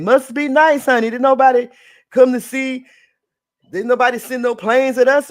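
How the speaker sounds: loud sassy put-on voice voicing the ministry; mock official statement. Host voicing the Brazilian ministry, loud and sassy. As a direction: talk back to Trump as the ministry, loud and indignant. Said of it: "The Justice Ministry said".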